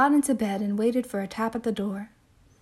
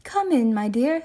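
put-on old lady voice; 3 dB louder than usual. Old lady in read story.

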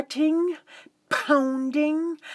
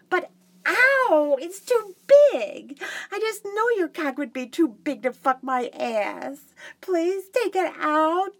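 pained whimper; 4 semitones higher than usual. Acted. Pained protest in scene.

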